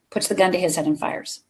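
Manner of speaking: ordinary talk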